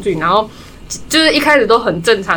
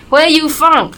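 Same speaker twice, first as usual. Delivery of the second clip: imitating the hairdresser; 6 semitones higher, 3 dB louder, much slower than usual. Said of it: "她就说".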